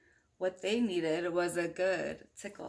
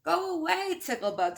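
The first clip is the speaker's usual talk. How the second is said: put-on shooing kids; 7 semitones higher, 5 dB louder than usual. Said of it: "said the students".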